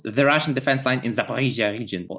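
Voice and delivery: slight, accidental German accent; a hint of a German accent. Real, not acted. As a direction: slip lightly into a German accent. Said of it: "say it with a German accent".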